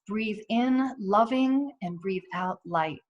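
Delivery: slow, calm, drawn-out phrasing; slow breath prayer. Shown as a demonstration. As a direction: let each word out on a slow breath. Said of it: "put two words together, such as these".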